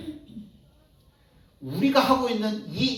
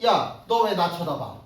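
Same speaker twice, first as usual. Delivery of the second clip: mock angry challenge; 3 dB louder than usual. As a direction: confront the one who stared, a hint of a brawler. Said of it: "화가 나가지고". (화가 나서 시비 거는 흉내로 크게)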